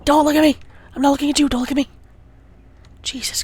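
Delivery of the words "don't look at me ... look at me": higher, louder frantic pleading; panicked shout. Real, not acted. Player begging the Enderman not to look, panicked shout.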